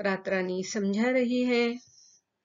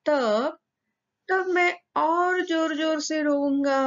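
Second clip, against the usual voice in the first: put-on higher, louder defiant little boy; stubborn child threat; 7 semitones higher, 4 dB louder than usual. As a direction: dare the queen like a sulky kid. (ज़िद्दी बच्चे की ऊँची धमकी)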